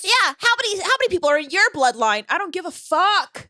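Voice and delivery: laughing mock date voice; mock date asker, laughing. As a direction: mimic a nosy date. Mocking date questions, laughing.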